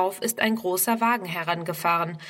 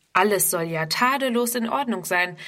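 ordinary delivery

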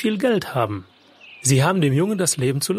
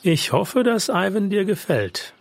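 higher-pitched, slowing, with a touch of doubt; hope aloud, but let a little doubt creep in; mildly uncertain, drawn-out hope; slightly doubtful; 6 semitones higher, slower than usual. Acted. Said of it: "Es lag ein wenig Zweifel in der Stimme".

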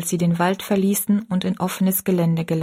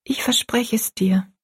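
put-on subdued, slightly raised girl's voice; a touch higher, hushed assent; quiet child's promise; 4 semitones higher than usual. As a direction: promise softly as an obedient daughter. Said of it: "sagte Rosalie still".

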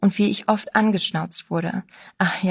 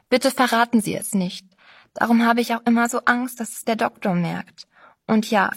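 Sabine, pleading; 2 semitones higher than usual. Acted. Sabine begs the narrator to stay silent, lightly anxious. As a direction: beg them to keep the secret.

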